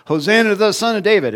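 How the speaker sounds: high, fast excited cry; children shouting praise to Jesus, high and fast; children cheering. Retold or imitated. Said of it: "they go".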